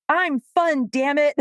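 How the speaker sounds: hammed-up needy plea for the dog; mock needy handler. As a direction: beg for attention, half joking.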